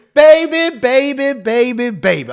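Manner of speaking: put-on loud high baby, fading down each time; mock scream. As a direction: wail baby like a hammed-up love song. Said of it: "I'm screaming".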